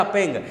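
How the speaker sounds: पेंग ending in a nasal "ng"; mistaken nasal reading. Shown as a demonstration. Teacher shows the wrong reading, nasal पेंग. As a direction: misread the word as पेंग, through the nose. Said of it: "इसका उच्चारण क्या हो जाएगा".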